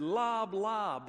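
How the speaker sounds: high, loud mock throwing call; reared back lob. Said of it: "he reared back and he said".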